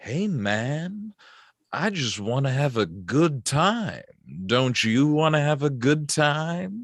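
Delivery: silky, oozing, buttery smooth, drawn-out delivery. Narrator voicing a creature speaking telepathically to a player, smooth, buttery, oozy voice. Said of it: "incredibly smooth, buttery, oozy voice that says".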